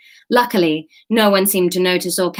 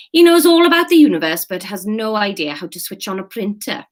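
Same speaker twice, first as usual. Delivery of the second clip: exasperated staff member; 2 semitones higher, 4 dB louder than usual. Acted. Staff member grumbles about a colleague, exasperated. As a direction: complain with an exasperated burst.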